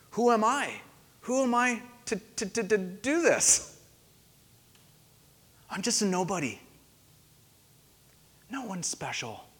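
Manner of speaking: mild mock stutter on to, to, to, fading quiet; a hint of nervous stammering that trails off softly; stuttering Moses. Preacher voicing timid Moses, lightly stuttering. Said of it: "has developed a nervous stutter".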